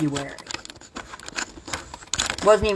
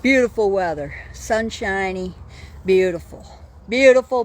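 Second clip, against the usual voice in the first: gushing; 3 semitones higher than usual. Real, not acted. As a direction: burst out with delight at the view. Exclaiming over sunny weather.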